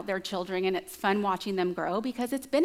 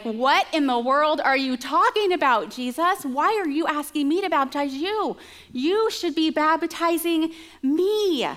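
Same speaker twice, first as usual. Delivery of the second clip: mild freak out; 4 semitones higher, 3 dB louder than usual. Retold or imitated. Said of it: "John just starts to freak out".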